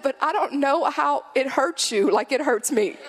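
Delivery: put-on high, insistent child voice; little boy. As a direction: imitate a four-year-old arguing with mom. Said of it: "He's probably four".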